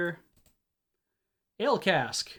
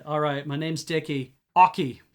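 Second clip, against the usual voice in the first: put-on slow Hadati-accented drawl; heavy Hadati drawl; 7 dB louder than usual. Trapper introducing himself to visitors, slow Hadati drawl. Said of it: "drawled the man with a heavy Hadati accent".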